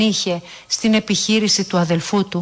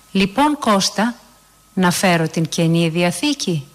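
sweetly asking. Acted. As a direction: ask him sweetly, easing the tension. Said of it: "ρώτησε γλυκά".

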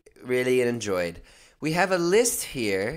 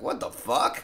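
whispered what the fuck; 4 semitones lower, 5 dB quieter than usual. Retold or imitated. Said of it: "I was like".

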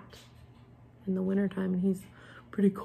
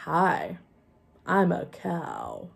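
slow, plain puppet greeting; slow puppet line; much slower than usual. Shown as a demonstration. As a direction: move only the jaw as you speak. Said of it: "only the jaw should move".

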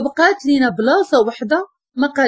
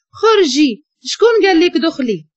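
angry order out; 5 semitones higher than usual. Acted. Upset girl ordering the intruder out, angry. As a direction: throw her out of the room.

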